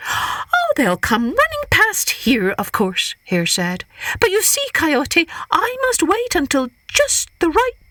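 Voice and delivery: high, innocent trickster hare; high sly Hare voice. Acted. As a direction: play Hare sweet and cunning.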